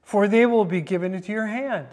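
lightly mock the king with false encouragement. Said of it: "here's where he said mockingly".

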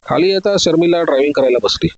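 ordinary delivery, nothing marked

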